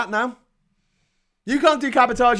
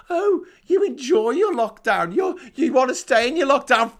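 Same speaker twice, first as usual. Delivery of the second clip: higher-pitched mocking whine; mock accusation, pitched up; mocking critics; 4 semitones higher than usual. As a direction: mimic the accusers in a higher, needling voice. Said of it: "But they'd say".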